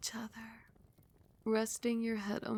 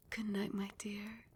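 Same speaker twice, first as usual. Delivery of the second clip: tender goodnight; 6 dB quieter than usual. Acted. Lulling partner to sleep.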